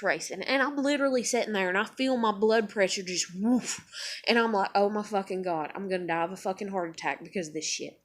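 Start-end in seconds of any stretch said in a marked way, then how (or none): 4.7-8.0 quiet, low, quick muttering; subdued dread. Retold or imitated. Fretting about a heart attack, low subdued mutter. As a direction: mutter it to yourself. Same panic line, first quiet.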